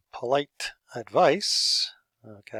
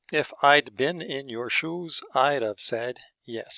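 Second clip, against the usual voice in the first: slow model sentence; 3 semitones higher, 4 dB louder than usual. Shown as a demonstration. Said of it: "hot sauce".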